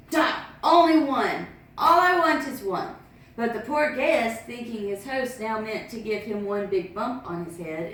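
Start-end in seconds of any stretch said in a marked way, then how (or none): 0.1-2.9 a touch louder, higher calling after him; mild shouting. Acted. Master shouting after fleeing guest, mildly loud. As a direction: call out chasing the guest.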